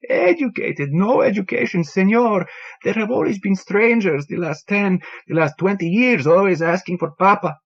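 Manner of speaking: put-on an old man mourning his lost bird, voice rising; grieving bartender Antonio.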